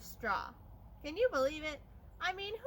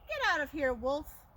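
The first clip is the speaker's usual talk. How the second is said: loud rude shout; 4 dB louder than usual. Acted. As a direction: bark him away from the door. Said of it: "that rude little porker answered".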